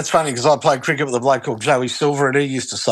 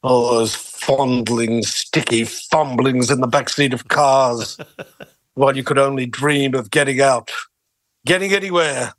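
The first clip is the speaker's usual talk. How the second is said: Hannibal Lecter impression. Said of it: "Anthony Hopkins playing Hannibal Lecter".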